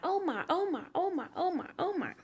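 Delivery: high, panicky repeated "oh my"; panicked fretting. Retold or imitated. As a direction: mom frantic over her missing son, fretting high. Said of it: "but I am crying 'cause I'm like".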